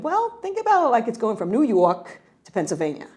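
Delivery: imitating dad's Brooklyn accent; a hint of a Brooklyn father's accent. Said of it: "in his Brooklyn accent".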